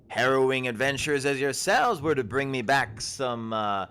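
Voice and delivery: a startled forager shooing travellers back; herb-picking woman. Acted. GM voices Ashleen.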